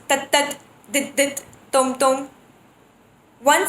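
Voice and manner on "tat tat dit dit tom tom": each syllable said twice in rhythm; doubled bols. Shown as a demonstration. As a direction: tap out the pairs with the voice.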